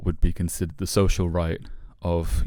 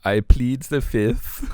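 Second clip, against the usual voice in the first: slow, higher, laughing I plead the fifth; laughing evasion; 6 semitones higher, 4 dB louder, much slower than usual. Pretend. To the friend questioning him as Sterner, slow laughing dodge. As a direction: dodge it with a grin, drawn out.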